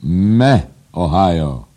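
very loud, high exultant cry; high treble crowing. A narrator's reading. Editor exulting over my Ohio, crowing high. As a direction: crow each word out separately. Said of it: "zapiał naczelny wysokim dyszkantem".

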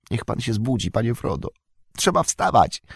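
trying to sound bright and cheery; a gentle morning wake-up call; forced cheerful tone. A narrator's reading. Sam waking Frodo as on summer mornings, forced cheerfulness. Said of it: "starając się nadać tym słowom pogodny ton".

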